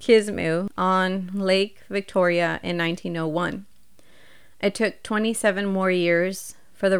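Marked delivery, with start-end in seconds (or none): 0.0-3.6 careful reread. Shown as a demonstration. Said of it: "let me read that again".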